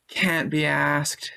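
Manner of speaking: mock British accent. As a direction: toss it off in a lazy British accent. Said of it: "was that an error, an accent".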